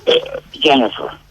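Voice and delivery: belch out the name; burping the words. Pretend. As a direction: say it mid-burp. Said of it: "Say it again".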